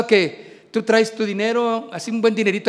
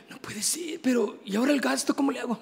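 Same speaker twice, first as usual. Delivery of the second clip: mock dismay; 9 dB quieter, faster than usual. Retold dismay over money.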